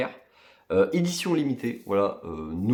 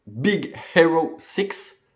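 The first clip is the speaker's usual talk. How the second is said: slow French-accented English title; English title in a French speaker's accent; self-mocked English accent; 3 semitones higher, much slower than usual. Real, not acted. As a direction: say it slowly in your "magnificent" English accent. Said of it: "Avec mon magnifique accent anglais".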